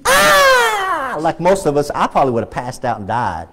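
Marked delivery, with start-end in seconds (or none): 0.1-1.2 high-pitched reenacted scream "Ah!"; retold scream. Preacher acting out woman seeing snake, high scream. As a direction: mimic her shriek at the snake, much higher. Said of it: "And she".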